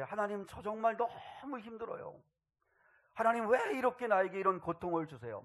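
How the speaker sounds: high, strained plea to God; acted pouring-out. Believer pours out pain before Father God, pleading protest. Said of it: "다 마음을 쏟아놓고".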